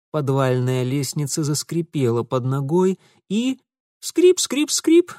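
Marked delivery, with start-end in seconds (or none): 4.0-5.1 high repeated creaks; creaking steps. A narrator's reading. Narrator imitating steps creaking down the stairs. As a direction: creak each step up high.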